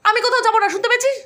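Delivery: a brother telling his sister to get lost; annoyed. Acted. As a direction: shoo her away, fed up.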